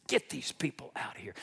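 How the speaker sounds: low, hushed, worn-down command; broken-down Pharaoh. Acted. Pharaoh finally broken down by the plague, defeated. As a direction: give in quietly, voice dropped low. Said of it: "finally broke him down".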